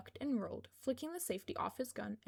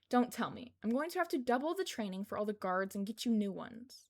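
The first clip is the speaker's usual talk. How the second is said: louder, exasperated rant; 4 dB louder than usual. Acted. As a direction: vent about doubling the guard training. Kayama exasperated at Izuku.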